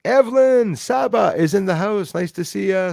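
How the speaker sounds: loud, high announcer-style greeting; rousing shout-out. Real, not acted. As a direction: call out a newcomer to the room. Announcing a viewer's arrival.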